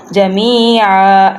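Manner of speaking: slow "جمیعاً" ending on open "aa", no n; pausal ending. Shown as a demonstration. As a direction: stretch "جمیعاً" and drop the final n for a stop. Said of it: "ایسے پڑھیں گے". ("جمیعاً" وقف میں ایک زبر سے، نون کے بغیر)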